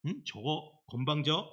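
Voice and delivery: imitating a parent losing temper; mock angry parent. Imitating a parent scolding a rude child, angry. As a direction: growl at the cheeky child. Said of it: "막 하면서 막 나가잖아요".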